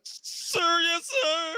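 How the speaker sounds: very high recruit's reply; comic high-pitched cadet; obedient recruit. Acted. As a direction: answer the sergeant in a high put-on voice. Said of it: "He's like".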